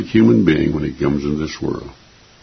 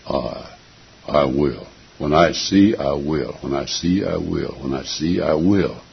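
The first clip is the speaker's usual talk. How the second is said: soft repeated promise; 4 semitones lower, 7 dB quieter than usual. Acted. Preacher repeats God's promise.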